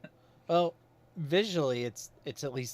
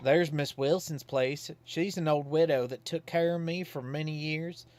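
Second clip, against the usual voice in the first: put-on folksy old Godfrey; 3 semitones higher than usual. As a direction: play him as a simple, cheerful Southern townsman. Reads Godfrey's lines in voice.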